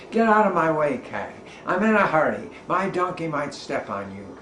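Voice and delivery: man shouting at cat to get out of the way. Acted. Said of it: "he shouted out".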